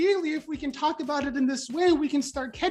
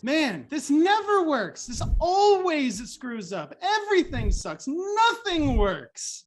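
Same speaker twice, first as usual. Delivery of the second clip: slow, whiny complaint; hammed-up defeatist grumble; mock sulking; 3 semitones higher, slower than usual. Shown as a demonstration. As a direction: drag out the gloom. Example of absolutist complaining.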